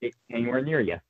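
muffled through a laptop mic; distant, muffled sound. Real, not acted. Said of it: "you sound a bit muffled".

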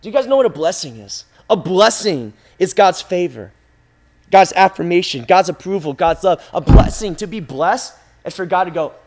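normal talking voice

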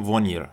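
"ونیر" as vuh-NEER with a non-French r; "ونیر" ending in a foreign learner's r; foreigner's wrong r. Shown as a demonstration. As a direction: say "ونیر" with a tongue-tip r, missing the throat r.

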